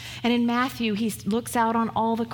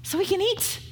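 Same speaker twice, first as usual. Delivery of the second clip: pleading disciples; 8 semitones higher than usual. Retold or imitated. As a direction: drag it out like a hungry whine. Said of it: "So they say to Jesus".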